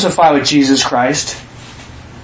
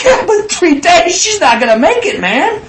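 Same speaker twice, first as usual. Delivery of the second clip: mock objection; 12 semitones higher than usual. Voicing a doubting objection.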